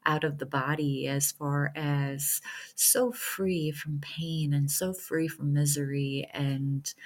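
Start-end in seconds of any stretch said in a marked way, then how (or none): 1.1-6.9 slow, soft, tender reassurance; softly slowed comfort. Real, not acted. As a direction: ease each word out gently. Soothing talk of the departed.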